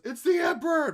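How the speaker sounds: high, loud cry of announcement; acted shout. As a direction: shout it like someone in the crowd. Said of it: "somebody goes".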